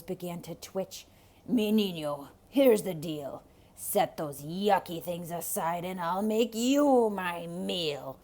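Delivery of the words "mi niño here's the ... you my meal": louder, menacing wolf voice; threatening wolf. Acted. Wolf to Rico, threatening to eat him, loud menace. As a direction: make the threat land hard.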